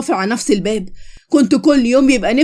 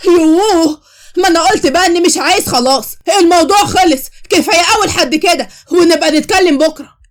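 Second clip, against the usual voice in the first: higher, fed-up whine to end the talk; exasperated brush-off; 4 semitones higher than usual. Acted. Khaled to his mother and friend, exasperated and dismissive. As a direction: wave them off, tired and annoyed.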